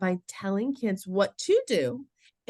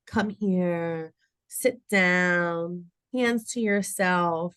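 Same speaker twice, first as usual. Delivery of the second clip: simple, evenly spoken instructions; short and sweet; much slower than usual. Shown as a demonstration. Adult giving young kids clear directions, short and sweet. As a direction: give each brief direction on its own. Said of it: "So short and sweet".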